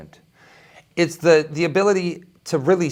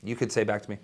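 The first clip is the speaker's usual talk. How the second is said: usual speaking voice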